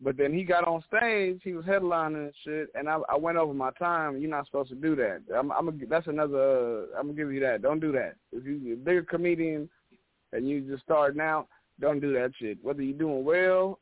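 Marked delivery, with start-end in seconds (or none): none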